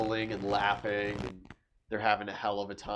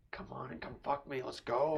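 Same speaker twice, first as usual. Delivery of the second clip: whisper; 8 dB quieter than usual. Acted. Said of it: "leans down and whispers".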